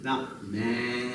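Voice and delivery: mock excited director. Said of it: "I was like".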